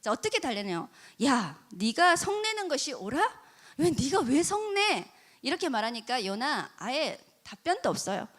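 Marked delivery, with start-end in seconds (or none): 1.2-5.1 coaxing. Retold or imitated. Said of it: "달래는 거예요".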